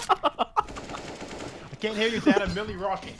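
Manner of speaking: put-on high taunting kid; lightly voiced defiant child. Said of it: "That's me when I'm disobeying my parents".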